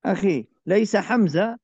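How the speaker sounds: laisa hamzah with a harsh throaty h; wrong h sound. Shown as a demonstration. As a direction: stretch out laisa slowly. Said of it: "لا، ليس حمزة". (حاء حلقية خاطئة)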